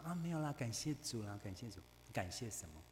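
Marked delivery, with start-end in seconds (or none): 0.0-1.8 softly self-effacing, trailing off quietly; fading humble murmur; mock humble tone. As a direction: play the falsely modest believer. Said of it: "我们要学这种谦卑的口气嘛".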